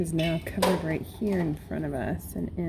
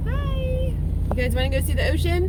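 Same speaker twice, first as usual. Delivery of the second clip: excited; 9 semitones higher than usual. Real, not acted. Greeting kids, excited to go.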